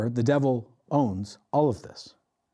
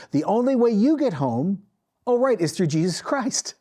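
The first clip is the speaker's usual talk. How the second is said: Peter's proclamation; 7 semitones higher than usual. Retold or imitated. Peter preaching to the centurion.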